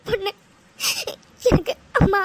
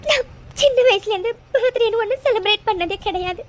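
tearful. Acted. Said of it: "அழாத".

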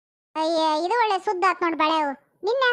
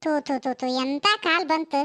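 disgusted spitting; 2 semitones lower than usual. Acted. Disgust at a cruel husband.

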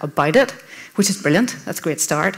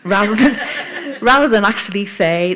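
laughing; 2 semitones higher, 3 dB louder than usual. Real, not acted. Laughing at her own cover story.

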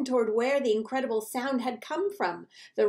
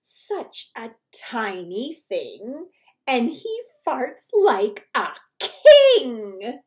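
exclaiming; 9 dB louder, slower than usual. Acted. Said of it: "The hippopotamus exclaimed".

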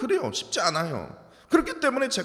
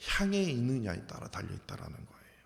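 whispered and softer for weight; 8 semitones lower, 8 dB quieter than usual. Real, not acted. Preacher to congregation, hushed whisper on the key point. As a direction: drop to a hushed whisper to drive it home.

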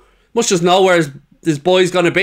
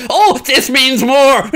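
mocking slogan; 5 semitones higher, slower than usual. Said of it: "your fucking F S G fucking whinging nonsense".

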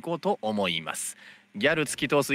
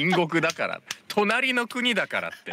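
軽いギャル口調、高め; 女子高生風に言い返す; japanese gyaru slang; 5 semitones higher than usual. Retold or imitated. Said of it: "めっちゃギャル". (ギャル語っぽく)

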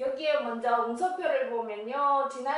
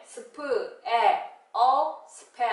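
slow blending; 7 dB louder, slower than usual. Shown as a demonstration. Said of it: "blending spell slowly".

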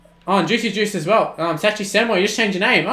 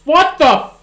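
loud, high outburst of disbelief; real gamer shock; shocked shout; 4 semitones higher, 9 dB louder, much slower than usual. Real, not acted. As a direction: yell it out stunned. Shock at a play.

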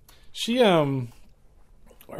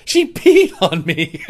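slow, loud, breaking into laughter; laughing; 2 semitones higher, 6 dB louder, slower than usual. Real, not acted. Quoting the friend with the soaked leg, laughing. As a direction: barely get the punchline out through laughs.

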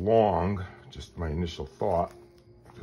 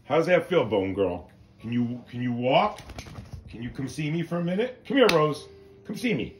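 high, loud sing-song dog talk; high-pitched pet talk; 10 semitones higher, 4 dB louder than usual. Real, not acted. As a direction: coax the puppy, pitched way up. Calling the dog to walk.

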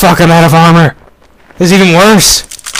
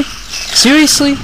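slow exasperated disbelief; 12 semitones higher, much slower than usual. Real, not acted. Repeated slowly in disbelief.

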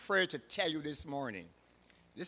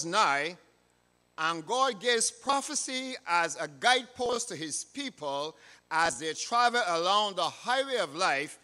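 louder, emphatic sermon delivery; preaching; 3 semitones higher, 6 dB louder than usual. Real, not acted. Preacher telling God's people of the Lord's coming, emphatic preaching. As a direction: proclaim it firmly to the congregation. Preaches to congregation after scripture.

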